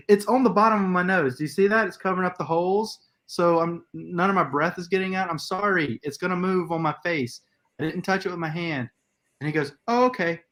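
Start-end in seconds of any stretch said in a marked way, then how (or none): 0.1-8.9 higher-pitched exasperated explaining; mild mock yelling, pitched up; retold indignant protest. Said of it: "after I yelled at him". 9.9-10.4 high-pitched backing-off okay; high little mimicked concession; mock meek clerk.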